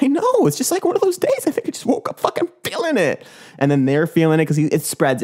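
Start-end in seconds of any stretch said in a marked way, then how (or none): 0.0-3.2 much higher, breezy and beaming; a cheerful guy who woke up glowing; high happy voice. Pretend. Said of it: "He's like".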